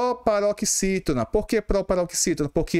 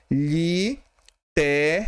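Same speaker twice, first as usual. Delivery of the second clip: Literários said slowly with a rising end; teacher stretching Literários slowly; slow word demo; much slower than usual. Shown as a demonstration. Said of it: "A mesma coisa que literários".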